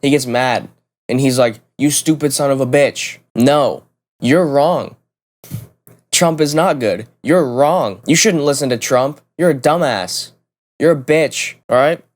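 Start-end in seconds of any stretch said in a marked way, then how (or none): 1.8-12.0 imitating an angry coworker, a little higher; hammed-up ranting coworker; mock freak-out. Coworker freaking out over politics, mock angry rant. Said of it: "starts freaking out".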